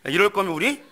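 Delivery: high, loud shouting tirade; furious wife. Acted. Wife screaming at her husband after the holiday, furious. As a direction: blow up and yell him down. Wife exploding in acted quarrel.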